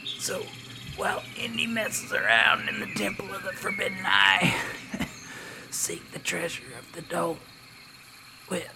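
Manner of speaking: dying explorer. Acted. Dying farewell.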